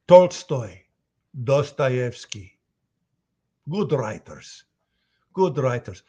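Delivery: put-on thick Russian accent, emphatic and deliberate; big Russian giving weighty verdicts; Heavy. Heavy giving his opinion on Russian writers, deliberate Russian accent.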